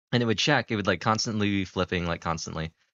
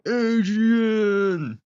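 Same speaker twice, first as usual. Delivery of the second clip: high, loud shout of the name; excited shout; 13 semitones higher, 6 dB louder than usual. Retold or imitated. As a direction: call out like the movie scene. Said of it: "Aiba will go".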